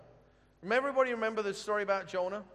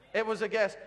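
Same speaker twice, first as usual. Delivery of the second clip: laughing; 3 semitones higher, 5 dB louder than usual. Shown as a demonstration.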